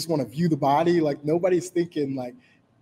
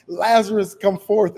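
higher and louder ringing summons; loud command; 6 semitones higher, 6 dB louder than usual. Retold or imitated. Jesus calling Lazarus from the tomb, loud. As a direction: call out so the whole crowd hears. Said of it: "with this loud voice".

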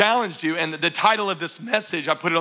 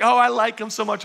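mock lovestruck gushing, pitched higher; 4 semitones higher than usual. New couple telling the pastor about him, gushing. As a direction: gush lightly like someone newly smitten. Newly dating person gushes to pastor.

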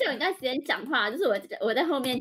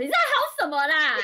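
sharp annoyed retort, louder; fierce snap; 2 semitones higher, 6 dB louder than usual. Retold or imitated. Customer scolding the clerk, a fierce snap. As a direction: snap at her like an angry customer. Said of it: "好凶哦".

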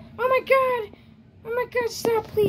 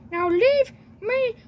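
slow drawn-out whine, close to tears; whiny plea; much slower than usual. Acted. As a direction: stretch every word like you're begging to sleep. Tired kid sends visitor away.

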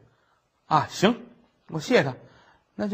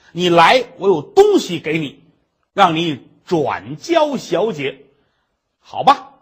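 eager urging; 8 dB louder, slower than usual. Acted. Scholar urges the maid to return.

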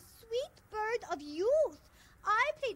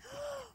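soft intake of breath; delighted gasp; 4 semitones higher, 10 dB quieter than usual. Acted. Meryl hears Big Bird knows all about birds, gasping. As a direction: gasp in wonder.

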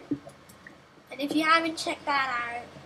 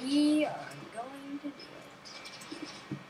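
softer, fully spelled-out words; mock-solemn resolve; 6 dB quieter, faster than usual. Player talking self into the venture, mock-solemn.

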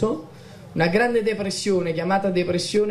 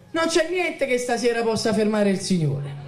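preaching shout; 3 semitones higher than usual. Real, not acted. Preacher exhorting his congregation.

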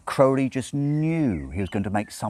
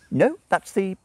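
irritable; 6 dB louder than usual. A narrator's reading. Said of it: "snapped his finger irritably".

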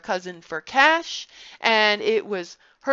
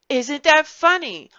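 a mock delighted child, a touch louder; light cruel glee, higher on that; gleeful mocking question; 6 semitones higher, 7 dB louder than usual. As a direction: ask it like a giddy child with a new toy.

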